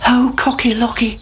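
high little chick voice; Chicken Licken. A narrator's reading. Chick runs to tell the king, high and urgent. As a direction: pipe it up like an alarmed chick. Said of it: "said Chicken Licken".

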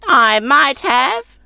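very high slow grudging crone; grudgingly, like a sour old woman; ungracious old woman. Acted.

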